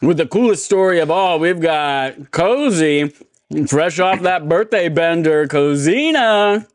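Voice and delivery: drawn-out announcer intro; announcer hype. Acted. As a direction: stretch the name like a ring announcer. Hyping up the guest host.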